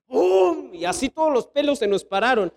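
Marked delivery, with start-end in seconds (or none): 0.1-0.7 high booming thunderclap noise; imitated lightning strike. Preacher recreates a bolt landing nearby, imitated lightning strike. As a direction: mouth a sudden crash of lightning. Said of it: "se escucha así un triste rayazo".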